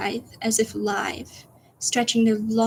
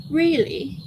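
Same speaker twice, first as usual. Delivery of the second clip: high-pitched test of a voice; Tubbo voice attempt; 5 semitones higher than usual. Trying to say it like Tubbo, tentative voice attempt. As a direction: try out a high British voice. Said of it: "Gotta think Tubbo voice".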